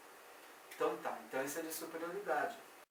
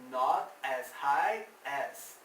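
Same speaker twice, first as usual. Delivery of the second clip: slow model phrase; 5 dB louder, much slower than usual. Shown as a demonstration. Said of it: "High, alto".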